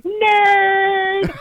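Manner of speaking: high, loud mocking nerd call while laughing; mock taunt. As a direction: jeer at your kid. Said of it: "I would say".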